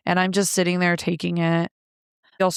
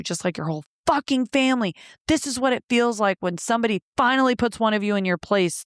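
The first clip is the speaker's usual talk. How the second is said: mildly heated, raised-pitch retelling of a taunt; imitated angry taunt; 5 semitones higher than usual. Ex taunting her after throwing her, imitated heated put-down. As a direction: lightly act out his gloating put-down.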